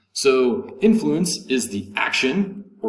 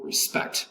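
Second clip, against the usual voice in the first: "respect" stressed on SPECT; light RE, firm SPECT in "respect"; second-syllable stress; 5 dB quieter than usual. Shown as a demonstration. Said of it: "with the accent over the second syllable".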